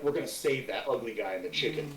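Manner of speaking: low, soft undertone, just audible; whispered aside repeated audibly. Acted. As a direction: confide the plan under your breath. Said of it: "I didn't hear what you whispered".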